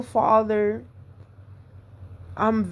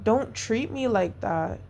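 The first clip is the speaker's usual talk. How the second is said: told him nicely; 2 semitones higher, 4 dB quieter than usual. Retold or imitated. Retelling how she calmly told him off, gentle and soft. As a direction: set a boundary kindly, softly. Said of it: "I told him nicely".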